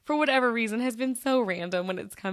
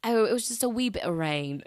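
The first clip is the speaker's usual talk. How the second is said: playful put-on Scottish lilt; lightly imitated Scottish accent; 3 semitones higher than usual. Shown as a demonstration. Podcaster demonstrating a phrase heard in Scotland, light Scottish accent. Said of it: "you gotta say it like that".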